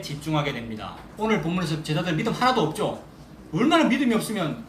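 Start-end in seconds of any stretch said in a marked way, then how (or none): 3.5-4.6 lachend uitgesproken, iets hoger; laughing. Real, not acted. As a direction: met een lach erdoor, half spottend. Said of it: "그, 그게 나잖아요".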